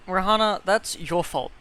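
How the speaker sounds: loud, high blaming call; loud accusing. Real, not acted. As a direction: call her out loudly. Blaming friend loudly.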